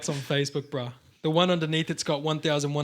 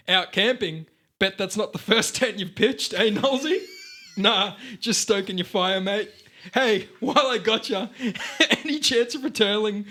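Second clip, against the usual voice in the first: hammed-up ocker bloke; 4 semitones higher, 3 dB louder than usual. Hammed-up ocker commenter, laughing.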